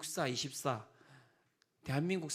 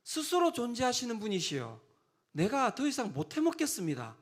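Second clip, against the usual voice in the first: fed-up Moses; 5 semitones higher than usual. Acted. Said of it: "짜증이 나서 이야기를".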